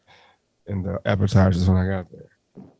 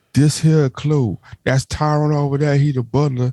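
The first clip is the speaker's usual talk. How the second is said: playful imitation of a ghetto host; mock ghetto Clue host; 4 semitones higher than usual. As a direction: drag it out like a goofy game host. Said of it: "It's gonna be ghetto".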